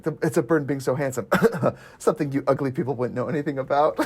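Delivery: fast, laughing through the line; laughing quote. Retold or imitated. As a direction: rush it while cracking up. Quoting vain character laughing.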